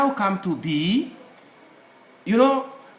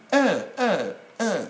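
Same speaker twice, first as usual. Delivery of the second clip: demonstrated hesitation; 3 semitones higher, slower than usual. Shown as a demonstration. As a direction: separate repeated "uh" sounds. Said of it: "like you're hesitating".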